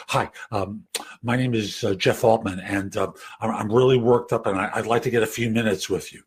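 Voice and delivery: a hint of a jittery caller; tense nervous caller. Shown as a demonstration. Demo of a nervous job seeker leaving voicemail, lightly tense. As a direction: play the caller who's all worked up. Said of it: "excuse me if I go into tension voice".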